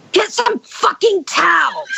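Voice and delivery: high, drawn-out yelled order; retold shrill-pitched cry of urgency; exasperated yell. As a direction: yell it to jolt someone into action. Escalates, snaps him out of it.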